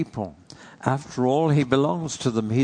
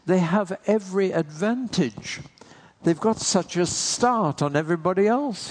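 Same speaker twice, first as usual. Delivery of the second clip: Paul's fervent plea; 5 semitones higher than usual. Retold or imitated. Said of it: "And he says".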